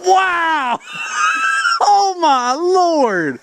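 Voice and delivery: loud startled cry with a laugh; shocked shout. Real, not acted. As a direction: blurt it out, truly startled. Bottle explodes loudly.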